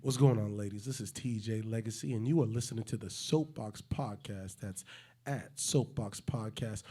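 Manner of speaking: a hint of smooth seductive host; sexy intro. Host doing a sexy intro for the ladies, lightly seductive. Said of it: "sexy intro".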